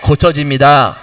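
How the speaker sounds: slow and deliberate, for the congregation to repeat; slow call for repetition. Shown as a demonstration. Pastor leading the congregation in a repeated line, slow and deliberate. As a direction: say it slowly so they can echo it. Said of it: "자, 한번 따라하세요".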